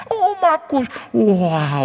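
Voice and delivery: pekik haru yang tinggi dan keras; seruan haru. Retold or imitated. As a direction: menirukan jemaat tua yang terharu. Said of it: "nangis, Saudara". (berseru haru, melengking tinggi)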